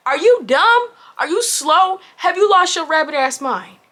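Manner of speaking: high, punchy rhetorical questions; incredulous scolding. Retold or imitated. Woman telling off her date over the bitten food, incredulous scolding.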